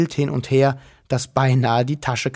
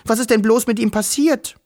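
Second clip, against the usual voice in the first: mild wail; 9 semitones higher than usual. Acted. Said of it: "jammerte Wischel".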